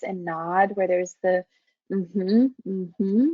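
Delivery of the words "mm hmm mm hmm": nod along with a rising mm-hmm; therapist mm-hmm. Shown as a demonstration. Therapist showing a client she is following with mm-hmm. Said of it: "we think of those as paraverbal markers".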